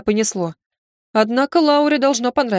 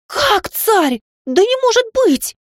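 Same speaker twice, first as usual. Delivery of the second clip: much higher, shrill-free shocked outcry; shocked yell; 13 semitones higher, slower than usual. Acted. Maid hears the secret lover is the tsar, shocked yell. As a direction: blurt it out in disbelief. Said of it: "на меня уставилась и заорала".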